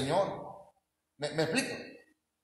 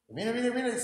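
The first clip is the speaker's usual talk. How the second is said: pastor emocionado imitado; 5 semitones higher, much faster than usual. Retold or imitated. Imitating pastor showing goosebumps again.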